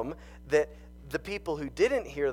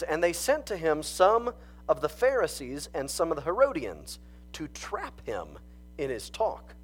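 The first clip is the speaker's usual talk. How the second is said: raised, earnest Bible reading; scripture reading; 3 semitones higher than usual. Acted. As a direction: read the passage out to the church. Reads scripture aloud.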